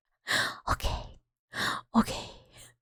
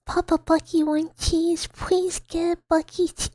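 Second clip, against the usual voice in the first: character voice reading chat; 5 semitones higher than usual. Acted. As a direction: read it in a bright silly character voice. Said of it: "We're getting in character".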